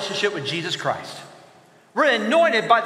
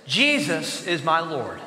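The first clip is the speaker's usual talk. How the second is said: slow declaration; 5 semitones lower, 3 dB quieter than usual. Shown as a demonstration. Models a message to repeat.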